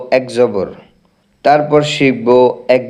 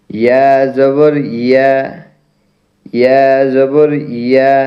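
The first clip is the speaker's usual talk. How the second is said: recitation drill. Shown as a demonstration. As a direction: say each letter with a clear, deliberate recitation.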